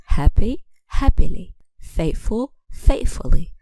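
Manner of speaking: "Happy, happily. Faithful, faithfully." each stressed on the first syllable; stress kept on first syllable. Shown as a demonstration. Teacher showing adverb stress, "Happy, happily. Faithful, faithfully." stressed on first syllables. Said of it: "stress stays in the same place".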